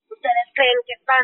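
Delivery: mock the churchgoers like a demon; raspy possessed girl. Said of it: "her voice is all raspy".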